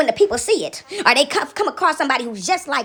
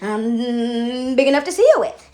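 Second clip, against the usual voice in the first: wolf as granny; 4 semitones lower, slower than usual. Acted.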